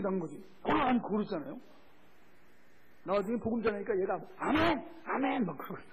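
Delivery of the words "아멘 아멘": high exclamation imitating a child's amen; retold eager amen. Healed boy answering the gospel, imitated eager cry. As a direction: punch out each amen, acted excitement.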